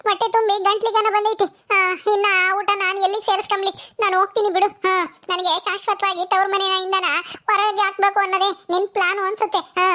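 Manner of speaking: bitter, sarcastic daughter refusing food; sting every polite word. Acted. Netra mocks her sister-in-law and walks out, bitter.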